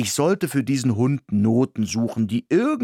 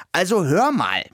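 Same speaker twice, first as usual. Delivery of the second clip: higher, huffy protest; indignant; 6 semitones higher, 3 dB louder than usual. Acted. Mouse protests to the dog, indignant and high. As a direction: bristle with indignation. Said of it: "sagte ich aufgebracht".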